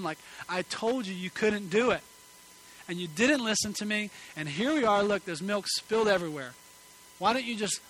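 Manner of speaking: put-on exasperated father scolding his boy; retold angry scolding. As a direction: snap at the son over spilled milk. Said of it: "kind of fleshly and angry".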